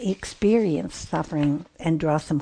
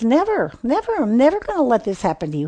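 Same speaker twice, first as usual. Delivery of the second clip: Peter's protest; 5 semitones higher, faster than usual. Retold or imitated. Peter insisting Jesus will never suffer, fast raised protest. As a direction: burst out like Peter refusing outright.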